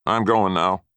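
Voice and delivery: put-on loud angry old man; angry threat. A narrator's reading. Grandfather warning the boy he is leaving, angry. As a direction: snap it at him as a warning. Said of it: "mean, nasty threats".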